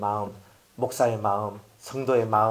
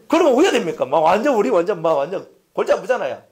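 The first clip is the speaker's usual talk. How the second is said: emphatic; 4 dB louder, faster than usual. Real, not acted. Rhetorical climax to congregation.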